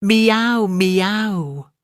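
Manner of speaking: high, loud cat meow falling away; plaintive cat cry at the door. A narrator's reading. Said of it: "interrupted Simpkin".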